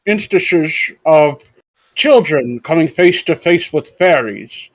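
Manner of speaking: slow, drawn-out mock Bane read; slow put-on villain voice for a silly article; the speaker doing Bane. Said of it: "the speaker doing his Bane impression".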